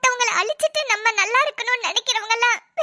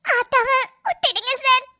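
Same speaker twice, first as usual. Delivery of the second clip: tearful pleading. Acted. Pleading for her release.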